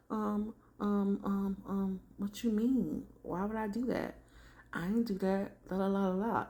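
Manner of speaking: high, hesitant mock innocence; deer in headlights. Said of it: "deer in headlights kind of thing".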